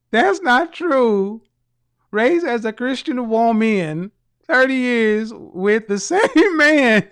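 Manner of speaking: slow, loud mocking imitation, laughing; laughing mockery of the commenter; mocking quote. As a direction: drag it out slow and loud to mock her. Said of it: "She said".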